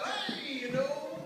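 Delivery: lightly voiced leprechaun; a hint of an Irish leprechaun. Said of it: "with the leprechaun voice".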